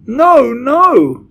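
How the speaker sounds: very high, loud wail; desperate, high-pitched plea; begged. A narrator's reading. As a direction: cry out in terror for mercy. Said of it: "begged the witch in the front row".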